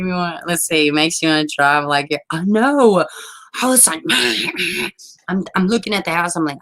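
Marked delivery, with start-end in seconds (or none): 4.1-4.9 imitated car horn. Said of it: "hear me laying on the horn".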